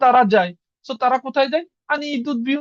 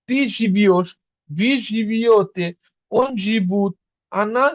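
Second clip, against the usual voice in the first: slow demo; much slower than usual. Shown as a demonstration. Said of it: "ওয়ার্ডের ভিতরে ইও আছেই".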